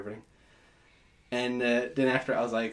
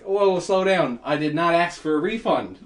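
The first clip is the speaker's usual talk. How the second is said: louder, higher mock protest; raised voice, incredulous; retold protest; 4 semitones higher, 5 dB louder than usual. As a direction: push back hard but half laughing.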